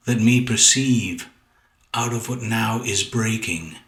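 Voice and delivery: measured poetry reading with pauses between phrases; poem recitation. Acted. Poet reading a sonnet to listeners, measured recitation. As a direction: read the sonnet out deliberately, phrase by phrase.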